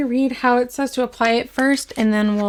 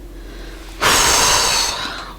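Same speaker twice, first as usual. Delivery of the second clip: heavy sigh. Real, not acted. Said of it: "I hold my breath and then I get out of breath".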